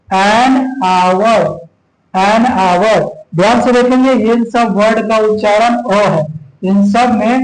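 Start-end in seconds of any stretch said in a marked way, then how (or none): 0.1-3.0 an hour with h silent, like aur; an hour said slowly. Shown as a demonstration. Teacher modelling silent h in an hour. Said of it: "जैसे".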